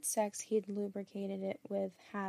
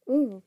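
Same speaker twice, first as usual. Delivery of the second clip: cooing; 3 semitones higher, 10 dB louder than usual. A narrator's reading. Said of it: "Beth cooed".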